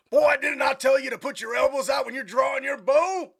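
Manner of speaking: mock drill sergeant yell. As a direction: bawl out a clumsy recruit. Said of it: "even though you're yelling at him".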